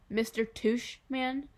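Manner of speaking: drawn-out, disbelieving MISTER TUSHMAN; incredulous repeat. A narrator's reading. Boy repeats silly name in disbelief.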